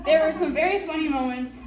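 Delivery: laughing as the story starts; breaking into laughter mid-sentence. Real, not acted. Teammate recalling funny hotel moments with Lydia, laughing.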